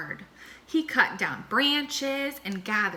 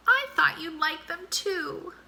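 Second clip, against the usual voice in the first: hurt; 8 semitones higher than usual. Acted. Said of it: "sniffed Armadillo".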